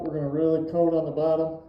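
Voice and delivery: talking through a respirator mask; muffled behind a paint mask. Real, not acted. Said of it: "Please excuse my muffled voice".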